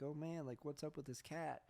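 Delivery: a hint of a whining guy; mock whine. Mocking the neighbor's whining over the crying cat. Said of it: "he was whining".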